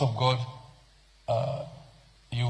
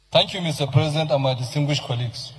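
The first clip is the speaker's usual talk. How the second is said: campaign voice. Shown as a demonstration. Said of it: "Use your campaign voice".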